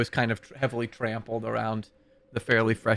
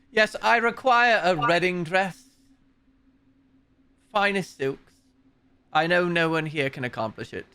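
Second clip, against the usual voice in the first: abbot voice; 3 semitones higher than usual. Acted. Abbot demands wedding dress.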